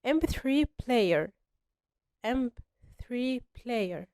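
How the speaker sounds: slow pronunciation model. Shown as a demonstration. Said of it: "نطقت الكلمة ازاي".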